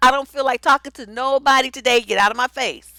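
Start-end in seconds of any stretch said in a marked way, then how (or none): none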